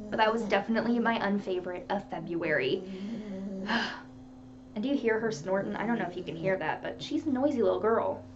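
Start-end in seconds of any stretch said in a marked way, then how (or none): 2.9-4.0 sigh. Real, not acted. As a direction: breathe out a quiet sigh. Sighs while showing the dog.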